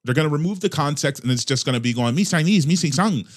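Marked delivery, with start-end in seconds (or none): 2.1-3.2 put-on sing-song caricature of a Chinese accent; hammed-up fake Chinese accent; mock Chinese accent. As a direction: parody a Chinese accent, slightly raised pitch. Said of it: "he did a dot, dot, dot accent".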